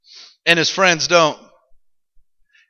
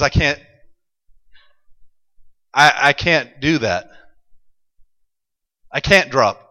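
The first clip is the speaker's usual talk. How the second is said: defiant friends refusing; 6 semitones lower, 4 dB quieter than usual. Acted. Friends refuse to bow, quoted.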